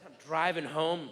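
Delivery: normal talking voice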